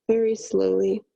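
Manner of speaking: whispering. Shown as a demonstration. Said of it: "very slowly (whispered repeat)".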